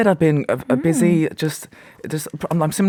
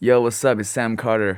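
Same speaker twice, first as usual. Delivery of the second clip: put-on American accent; 6 semitones lower, 3 dB quieter than usual. A speaker shows friends how his name sounds in american, american accent. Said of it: "my name sounds different in American".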